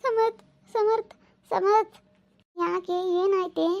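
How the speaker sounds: high, slow, teary calling his name; tearful calling out. Acted. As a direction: call after him through tears. Wife calling husband after he hangs up.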